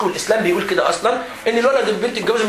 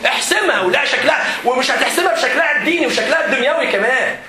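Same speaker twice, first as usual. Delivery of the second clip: urging shout; 4 semitones higher than usual. Real, not acted. Teacher urging loudly.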